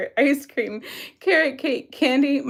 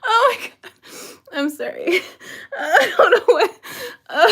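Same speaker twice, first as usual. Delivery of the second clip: laughing; 6 semitones higher than usual. Real, not acted. Laughing after joke.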